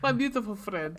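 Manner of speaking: put-on a light, hammy Russian accent on My beautiful friend; fake Russian accent. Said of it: "we do some fake, fake Russian accents".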